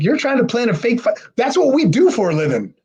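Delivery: high-pitched imitation of offended guys; mock indignation. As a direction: call him out, retelling it. Guys accuse Chad of faking.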